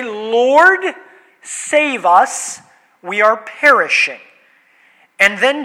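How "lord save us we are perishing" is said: raised-voice cry for help, lightly acted; calling out. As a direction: call to the Lord in measured desperation. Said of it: "they call to him and say".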